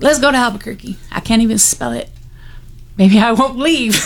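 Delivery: a laughing joke at her own expense. Retold or imitated. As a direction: chuckle through the lines. Joking in the retelling.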